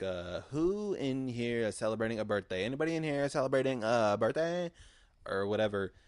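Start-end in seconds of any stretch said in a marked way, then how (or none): 0.5-4.7 louder, faster host asking the crowd; emcee crowd call. Retold or imitated. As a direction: rev up the audience like an emcee. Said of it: "she was like".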